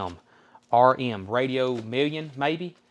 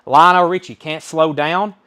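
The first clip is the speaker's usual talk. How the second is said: called out high and loud, the title slowed; booming auction call; loud announcement; 4 semitones higher, 9 dB louder than usual. Real, not acted. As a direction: announce the lot to the room. Auctioneer announcing next record.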